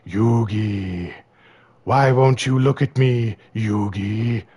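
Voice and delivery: a lightly put-on villain, pleading; hammed-up whiny plea to Yugi; mock Pegasus voice. Pegasus mocking Yugi, pleading in a put-on voice. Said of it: "He was like".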